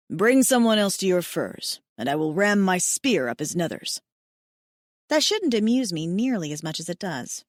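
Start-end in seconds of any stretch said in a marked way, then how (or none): 0.1-4.0 a hint of a tender alien mate; lowered male mate voice. A narrator's reading. Hayden voiced in the story.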